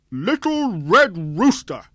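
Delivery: high, loud, slow pompous ruler voice; haughty sultan. Acted. Fat Sultan calling down to the rooster, loud and pompous. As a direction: boom it down from high on a horse.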